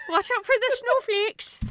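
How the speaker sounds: high, giggling mock alarm; laughing mock warning. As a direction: warn while cracking up. Mocking Republicans, laughing.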